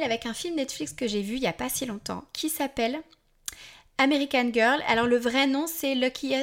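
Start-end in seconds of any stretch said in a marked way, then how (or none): 4.0-4.8 English title with a French accent, louder; real French accent in English. Real, not acted. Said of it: "On ne juge pas mon accent anglais". 5.9-6.3 English title drawn out slowly with a French accent; careful, French-accented English. Real, not acted. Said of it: "On ne juge pas mon accent anglais".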